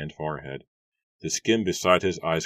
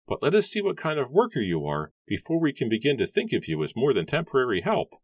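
much higher, put-on voice for the farmer; gruff farmer Matthew; 9 semitones higher than usual. A narrator's reading. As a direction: play the grumpy farmer, pitched way up. Matthew warns the new worker.

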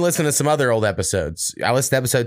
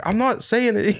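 defensive Wyatt; 9 semitones higher, slower than usual. Retold or imitated.

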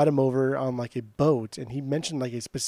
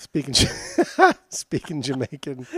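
laughing through it; slower than usual. Real, not acted. Cracking up at the pun.

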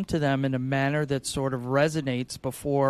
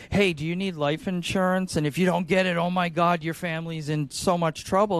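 pushy salesy pitch; 3 semitones higher than usual. Retold or imitated. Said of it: "as opposed to".

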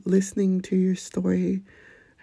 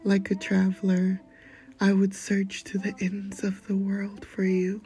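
poem reading. Acted. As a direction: read it like an intimate spoken-word piece.

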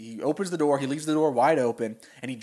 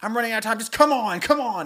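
high, fast, frantic Kermit voice; 7 semitones higher, 3 dB louder, faster than usual. Retold or imitated. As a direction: hurry them along in a higher voice. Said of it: "And he's like".

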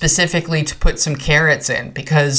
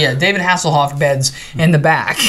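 laughing. Real, not acted. Joke about the bed name.

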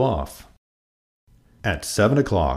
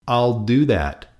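screeching grouchy; 6 semitones higher, 4 dB louder than usual. A narrator's reading. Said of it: "screeched the grouchy ladybug".

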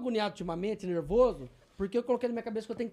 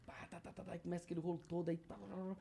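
soft whispered tapping sounds; imitated tics; 13 dB quieter than usual. Shown as a demonstration. Showing how tics build up, whispered imitation. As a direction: tap the tics out under his breath. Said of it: "começa a fazer assim".

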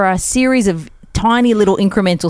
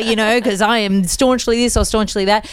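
slightly raised, insistent parental warning; lightly voiced parents; 4 semitones higher than usual. Parents warning kids never to reveal their politics, lightly voiced warning.

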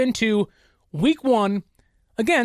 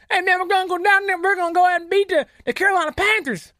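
a weak attempt at a Boston accent, higher and fast; failed Boston accent; 7 semitones higher, much faster than usual. Imitating Patriots fans in a bad Boston accent, fast. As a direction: fumble a Boston fan accent, rushing it. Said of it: "That wasn't the Boston accent".

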